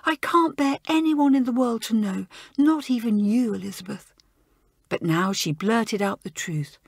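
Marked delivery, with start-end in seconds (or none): 0.0-4.1 ashamed schoolgirl. Acted. Joan voiced, ashamed.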